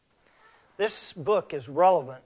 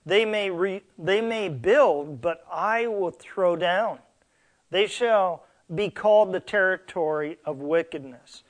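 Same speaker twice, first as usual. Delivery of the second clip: scripture reading; 3 dB louder than usual. Acted. Reads scripture aloud from Malachi.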